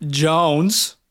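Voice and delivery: drawn-out hype call of the name; hype announcer call. Acted. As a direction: stretch it out like an announcer. Hype intro of player name.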